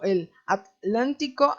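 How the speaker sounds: "atlántico" lento, separado at-lántico; pronunciación de España. Retold or imitated. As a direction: imita a los españoles cortando "atlántico" tras la t. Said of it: "Hacen unas cosas raras con la T y la L". ("atlántico" con t y l en sílabas distintas)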